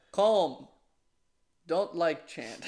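mock Russian accent, clipped broken English. Podcast host imitating Medvedev at the fan, Russian accent. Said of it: "In the Russian accent".

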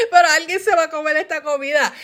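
fast, high mock insistence; playful angry decree, rushed; fired up. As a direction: insist hotly with laughter close by. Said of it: "yo me enciendo de u-, de uno a mil súper rápido".

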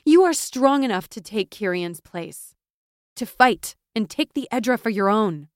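loud, forceful rallying; fervent, emphatic conviction; impassioned urging. A narrator's reading. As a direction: press a friend to claim her birthright. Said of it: "her voice gaining momentum".

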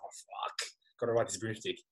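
panicked whisper on the run. Retold or imitated. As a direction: breathe it out in fear. Panicked thought while fleeing Voldemort.

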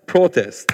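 "Protest" stressed firmly on PRO; PRO-test, falling after the first syllable; corrected stress. Shown as a demonstration. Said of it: "Yeah, there you go".

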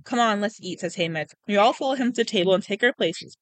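steady storytelling with lightly voiced dialogue; story narration. A narrator's reading. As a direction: read it like an audiobook, lightly acted. Reads a novel aloud.

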